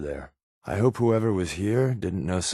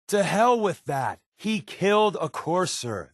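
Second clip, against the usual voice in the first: indignant outburst; 7 semitones higher than usual. Acted. Deacon objecting to Des about the newcomer, indignant outburst. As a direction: throw the objection right back.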